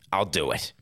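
barely voiced, grudging surrender; whispered giving in. Grudging concession.

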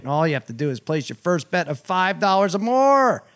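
upbeat sponsor read. Acted. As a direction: sell the FanDuel promo. Host reads a sportsbook ad.

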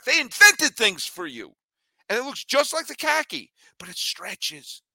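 lively host ad read for shorts. Acted. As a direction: sell the product to a friend. Host reads sponsor ad.

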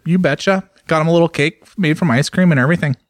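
a light Minnesota-Scandinavian lilt on the vowels; Minnesota accent. Pretend. Friend riffing on a Fargo trip in a light Minnesota accent. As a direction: play a folksy Upper Midwest local. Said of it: "I don't want you to stop".

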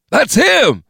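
high, loud cry of recognition; excited, high-pitched yell; alarmed shout. Acted. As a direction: raise the alarm on spotting your target. Gunman spots wanted man.

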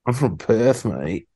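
mock Aussie reply, half-hearted; Australian accent. Answering the teasing friend in an Australian accent. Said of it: "that was pretty good".

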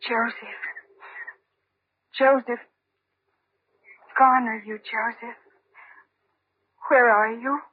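grieving call. Acted. Calling dead lover by pond.

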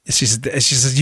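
usual speaking voice

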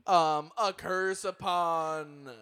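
very slow ritual intoning; laying a curse. Acted. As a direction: drag out the curse words. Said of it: "we'll perform the clicking chant".

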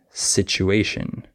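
situation with TU said "choo", sich-oo-ay-shun; TU as chew. Shown as a demonstration. Teacher giving an example, situation with TU pronounced chew. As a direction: say a slow situation with a ch sound. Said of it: "can be pronounced chew".

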